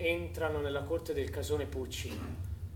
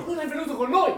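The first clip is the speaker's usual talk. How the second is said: high, loud call back; shouted reply; 10 semitones higher, 5 dB louder than usual. Acted. Men tell the father, shouting high. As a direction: shout the bad news across.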